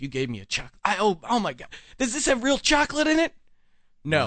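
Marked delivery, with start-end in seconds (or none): 0.8-3.3 high, louder picky snob voice; snooty mock. Mocking the homeless woman as a picky snob, snooty. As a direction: sneer at the cookie in a snooty put-on. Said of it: "this fucking attitude like".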